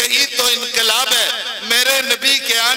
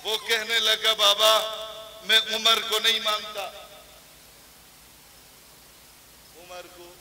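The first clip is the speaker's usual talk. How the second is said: hushed setup; 8 dB quieter than usual. Acted. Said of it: "زور سے".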